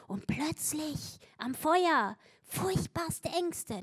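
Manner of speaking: slow, breathy whisper of dread; preacher hushing at Peter's fear; hushed whisper. A narrator's reading. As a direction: whisper it like a secret terror.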